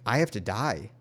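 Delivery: mildly resigned, giving in; resigned acceptance. Retold or imitated. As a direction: accept it with a slight drop. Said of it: "I just accepted it".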